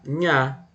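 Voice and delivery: "nha" spoken as a clean syllable; "nha" said as a single syllable; 1 sounded out. Shown as a demonstration. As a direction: say "nha" as one clear sound. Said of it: "N H A".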